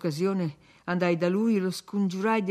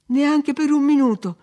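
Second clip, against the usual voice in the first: high, loud, instant refusal; fierce refusal; 7 semitones higher, 8 dB louder than usual. A narrator's reading. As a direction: refuse him passionately. She refuses his plea.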